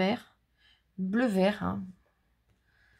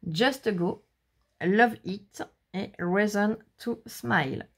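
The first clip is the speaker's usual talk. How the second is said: slow English with a French accent; much slower than usual. Real, not acted. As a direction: read English phrases slowly, French-accented. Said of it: "toi, en anglais".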